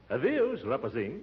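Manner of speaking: mock Portuguese goodbye "adeus, rapazinho"; Portuguese farewell. Uncle bidding nephew goodbye, hammed-up Portuguese. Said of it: "as they say in Portuguese".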